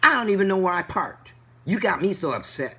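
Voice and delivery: high, loud, flustered whine; flustered driver. Retold or imitated. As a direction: mimic the panicked driver. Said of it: "out of her mouth comes".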